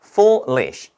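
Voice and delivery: foolish repeated as two beats, foo, lish; short gap inside foolish before "lish"; syllable by syllable. Shown as a demonstration. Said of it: "이 음절입니다".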